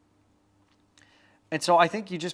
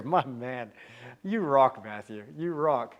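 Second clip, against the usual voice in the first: put-on Scottish accent; slower than usual. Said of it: "I apologize for my Scottish accent there".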